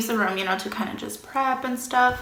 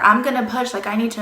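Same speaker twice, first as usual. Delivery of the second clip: insistent; 2 semitones higher, 6 dB louder, faster than usual. Retold or imitated. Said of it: "I did tell her".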